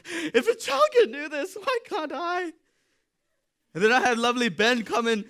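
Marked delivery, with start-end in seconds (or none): 0.1-2.5 high, exasperated self-question; mock exasperation. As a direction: whine it in disbelief.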